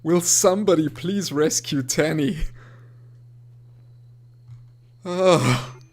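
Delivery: loud frustrated pleading; exasperated plea. Real, not acted. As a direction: beg in frustration. Pleading for pet rescue.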